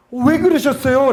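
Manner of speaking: high, heartfelt crying out; anguished outcry. Retold or imitated. Believer overcome by Christ's suffering, anguished outcry. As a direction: call out to Jesus in anguish. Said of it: "라고 막 외치게 되더라고요".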